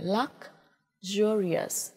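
"luxurious" very slowly in parts, "luk ... zhurious"; careful teacher's "luxurious", drawn out; sounded out from phonetics. Shown as a demonstration. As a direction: model "luxurious" slowly, break after the first syllable. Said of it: "Ở đây chúng ta thấy phiên âm này".

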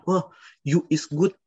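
hammed-up learner voice; mock eager local speaking wrong grammar; local's broken English.

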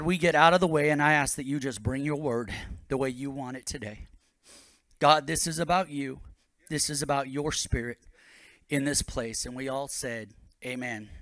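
earnest prayer, softening toward the amen; congregational prayer. Real, not acted. Pastor praying before the sermon, earnest and settling. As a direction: pray it plainly, letting pitch and volume sink.

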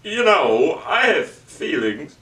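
slow, halting Walken-style delivery; lightly voiced Walken, slowed pauses; Christopher Walken impression. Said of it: "that's Christopher Walken".

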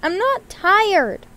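high, loud, slow protest; yelled. A narrator's reading. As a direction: yell it back stubbornly. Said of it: "yelled Gozzle".

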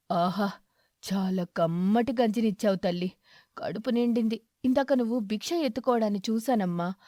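kindly aged beggar, content; grateful old eagle. Acted. Eagle character voice.

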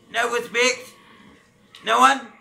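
loud, indignant "No one?"; outraged shout. Real, not acted. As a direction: yell it at the useless team. Gamer outraged nobody helps.

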